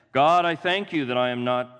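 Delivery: a hint of a smug, pompous Pharisee; lightly voiced smug prayer; self-righteous Pharisee. Pharisee praying proudly in the temple, lightly pompous. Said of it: "I don't know why I use that voice".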